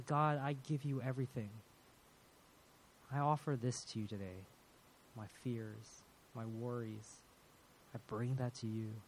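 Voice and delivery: soft, hushed offering to God; quiet surrender prayer. Acted. Believer giving God fears and worries, quiet prayer.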